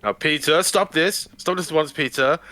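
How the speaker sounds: a lightly hammed-up Blessed telling Peter off; Brian Blessed voice. Retelling an anecdote, Brian Blessed scolding Peter O'Toole, booming. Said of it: "Brian Blessed's".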